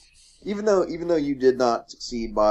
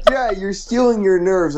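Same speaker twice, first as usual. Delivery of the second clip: mock dungeon master; 12 semitones higher, 6 dB louder than usual. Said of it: "I'm like".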